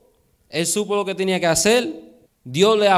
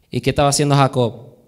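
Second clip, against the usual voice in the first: ordinary talk, nothing marked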